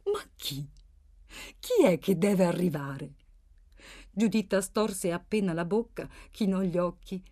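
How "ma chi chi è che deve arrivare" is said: hushed, puzzled question; sottovoce. A narrator's reading. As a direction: lean in and ask under your breath. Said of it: "chiese sottovoce". (domanda a bassa voce, quasi sussurrata)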